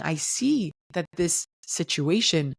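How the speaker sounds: slow, gentle I see you; slow validating. Shown as a demonstration. To a partner, slow gentle validation. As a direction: acknowledge them slowly and gently. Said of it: "at least you're saying".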